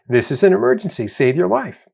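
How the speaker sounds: quick, urgent inner alarm; the stressed mind's mock alarm. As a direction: blurt it like your brain's panic button. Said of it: "So the thinking mode is".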